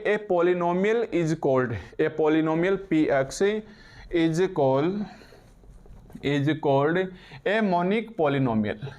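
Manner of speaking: slow, word-by-word dictation; dictation pace. Real, not acted. Teacher giving students a definition to write, slow dictation. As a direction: spell out the definition slowly for note-takers.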